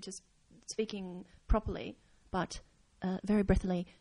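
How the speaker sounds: lightly hinted Japanese accent, breathy and halting; hint at a Japanese cadence with halting pauses. Shown as a demonstration. Podcaster showing a friend's tip, understated halting Japanese accent. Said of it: "doing a Japanese accent".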